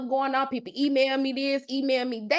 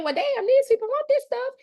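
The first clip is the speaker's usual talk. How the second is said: high, louder mock exclaim of discovery; surprised realization; 12 semitones higher, 3 dB louder than usual. Host retelling realizing people wanted her class, high amazed exclaim. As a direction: act out the moment it clicked. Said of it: "like, saying".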